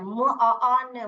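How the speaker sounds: "म, आ, आन" stretched very slowly; slow wrong blending. Shown as a demonstration. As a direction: draw the sounds out one by one. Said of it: "गलत आ रहा है पढ़ना". (धीरे-धीरे गलत जोड़कर पढ़ना)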